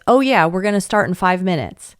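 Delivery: offhand, half-listening "Oh yeah"; volunteer brushing off a child; distracted brush-off. Shown as a demonstration. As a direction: answer without looking up from the phone. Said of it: "they don't answer it like this".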